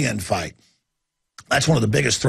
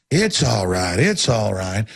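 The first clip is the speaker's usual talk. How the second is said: soothing; 4 semitones lower, slower than usual. Retold or imitated. Soothing injured horse before shooting.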